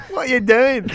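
high, loud Kiwi dad voice; Kiwi accent. Retold or imitated. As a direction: echo a New Zealand dad. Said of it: "Do an impression of my dad".

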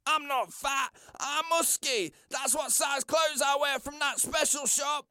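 high, upset protest; offended outburst. Acted.

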